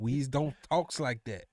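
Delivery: put-on slow, drawn-out parody Southern accent; mock movie Southern accent. Mississippi guest mocking the show's dialogue, exaggerated Southern accent. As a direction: stretch it in a hammed-up country Southern drawl. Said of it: "How they literally talking on that show".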